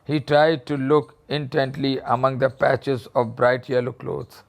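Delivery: reading the story slowly, word by word. A narrator's reading. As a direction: read it out slowly for the class. Teacher reads the story aloud. (धीमी आवाज़ में कहानी पढ़ना)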